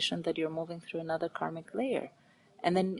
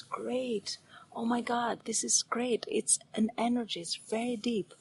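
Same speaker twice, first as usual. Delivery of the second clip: delighted; 5 semitones higher than usual. Retold or imitated. Delighted at sadness.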